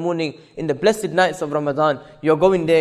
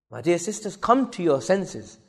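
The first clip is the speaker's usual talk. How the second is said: soft, slow appeal; subdued plea; 5 dB quieter than usual. Real, not acted. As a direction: plead slowly, holding the volume down. First, softer take of plea.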